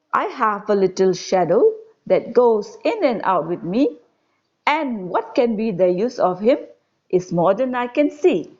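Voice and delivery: put-on measured, lilting verse reading to children; poem recitation. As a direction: recite it line by line with lifted key words. Reads the stanza once more.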